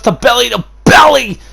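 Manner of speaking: high, loud hype call of the move; excited call. Real, not acted. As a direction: sell the big suplex like a live announcer. Commentator hypes big suplex.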